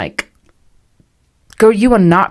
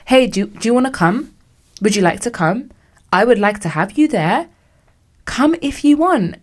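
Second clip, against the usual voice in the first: polite invite; 4 semitones higher than usual. Shown as a demonstration. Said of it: "either say nothing or say".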